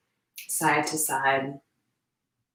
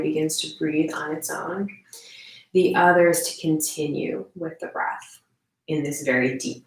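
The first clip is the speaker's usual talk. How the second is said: calm, unhurried meditation guide; measured guidance with room to breathe; guided meditation. Real, not acted. Leads a standing meditation.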